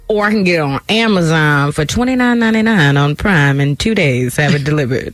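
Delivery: announcer-style offer, settling down in pitch; commercial voice. Acted. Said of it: "That's the commercial voice".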